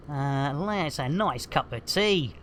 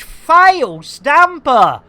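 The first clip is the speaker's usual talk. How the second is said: slow, drawn-out robotic read, louder; text-to-speech voice; 6 semitones higher, 9 dB louder, much slower than usual. Retold or imitated. Reading out a viewer's alert like a slow robot voice. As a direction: mimic a speech synthesizer mangling a name. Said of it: "text-to-speech".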